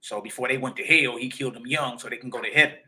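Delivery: lightly voiced fast mocking believer; preacher mocks a believer's excuse, lightly voiced and fast. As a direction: brush off the question quickly in a mocking voice. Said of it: "mumble mouth Negro say".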